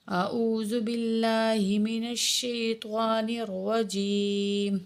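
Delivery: slow, measured tajweed recitation; Quranic recitation. Shown as a demonstration. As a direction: recite it devoutly and slowly. Recites the ta'awwuz.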